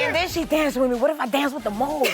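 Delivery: laughing retelling. Retold or imitated. Contestant retells dancing with the mole, laughing. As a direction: let laughter break into the retold words.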